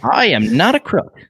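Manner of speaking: slow, high, hammed-up Nixon; slow mock presidential denial; Nixon impression. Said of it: "Nixon's back".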